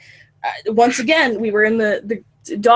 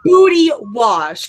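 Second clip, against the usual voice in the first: drawn-out mock shout; 3 semitones higher, 5 dB louder, slower than usual. Repeating dad's funny phrase.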